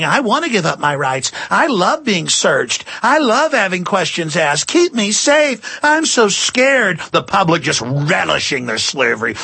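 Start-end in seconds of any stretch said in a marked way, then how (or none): 0.0-7.0 mock frightened caller. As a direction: ham up a scared caller who begs to be searched. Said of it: "everybody calling into the talk radio going".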